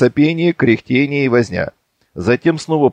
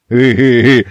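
loud gloating drawn-out eh; gleeful drawn-out eh; 7 dB louder than usual. Acted. Petr gloating at the argument, drawn-out loud eh. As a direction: crow with delight. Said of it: "опять возрадовался Пётр".

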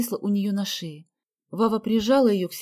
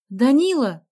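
louder, higher call of a name; 4 semitones higher, 5 dB louder, slower than usual. A narrator's reading. Girl calling her friend from the car. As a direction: call him over. Позвала она своего друга.

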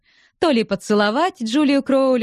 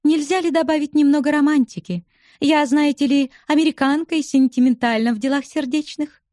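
a higher, playful woman's voice; lightly voiced teasing young widow; 6 semitones higher than usual. A narrator's reading. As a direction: tease him with a light, higher voice. Narrator voices Julia. (слегка повыше, насмешливый женский голос)

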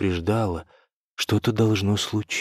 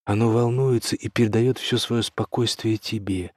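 usual speaking voice

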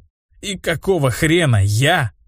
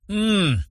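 удивлённое «м-м-м», высоко и тише; изумлённо протянуть «м-м-м»; удивлённое мычание; 8 semitones higher, 4 dB quieter than usual. A narrator's reading. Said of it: "удивлённо воскликнул я". (удивлённое мычание после стакана)

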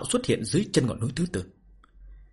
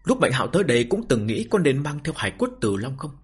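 story narration. A narrator's reading. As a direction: narrate the novel with measured phrases and pauses. Reads a novel aloud to listeners. (giọng kể truyện)

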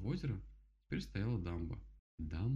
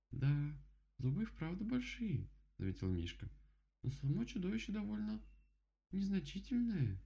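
note it calmly; droge, hogere berenstem; higher bear voice, dry remark; 11 semitones higher than usual. Acted.

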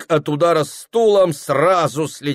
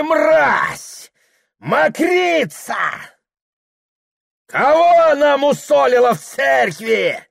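high furious screaming; father screams at his son; raging shout; 13 semitones higher, 3 dB louder, slower than usual. A narrator's reading. Father rages.

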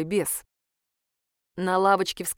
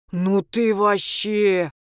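возмущённо; 3 dB louder, much slower than usual. A narrator's reading. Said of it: "возмутился тот".

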